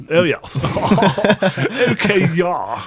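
mock-posh yah with laughter; joking posh Queen's English. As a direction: put on plummy Queen's English. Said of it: "we can talk the Queen's English".

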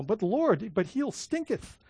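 lightly hammed-up old-Bible voice, quiet; mock King James English. Pastor to congregation, joking in mock King James English. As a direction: play up the archaic stinketh for a laugh. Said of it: "King James, I always say this".

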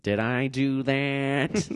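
slow, nerdy catchphrase; Urkel impression. Quoting the nineties sitcom nerd, slow nerdy catchphrase voice. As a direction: play the sitcom nerd caught out.

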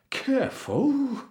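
high, drawn-out, winded warning; puffed exclamation. A narrator's reading. Cook is rammed in the stomach, puffing. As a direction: puff it out as if bumped in the belly. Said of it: "puffed the cook".

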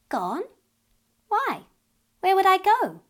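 put-on a little girl enchanted by the wind; lightly voiced wondering child; dreamy little girl. Curious child asks.

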